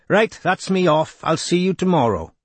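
light lilting Welsh lilt; lilting Welsh accent. A narrator's reading. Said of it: "Geraint's lilting accent".

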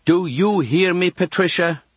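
high, insistent nun demanding an answer; Sister Rita. A narrator's reading. Nun to girl caught talking, insistent. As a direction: press the child for obedience. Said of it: "then Sister Rita's voice".

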